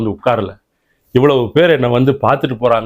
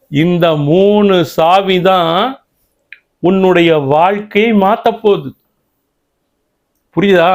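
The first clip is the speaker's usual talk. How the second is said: solemn instruction; 4 semitones higher than usual. Acted. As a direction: lay down each word like a vow. Guru instructs Karkandu solemnly.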